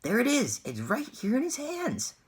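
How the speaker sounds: high, loud excited scream. A narrator's reading. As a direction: scream it out in pure astonishment. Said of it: "screamed the shopkeeper".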